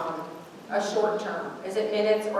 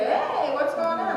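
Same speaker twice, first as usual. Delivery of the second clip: lightly voiced son, higher and slower, as if nothing happened; son's breezy voice; 8 semitones higher than usual. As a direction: play the carefree kid strolling back downstairs. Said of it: "come back down and say".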